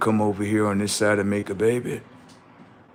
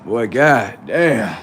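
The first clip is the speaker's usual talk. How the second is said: amazed exclaim; 5 dB louder, much slower than usual. Retold or imitated. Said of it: "I said".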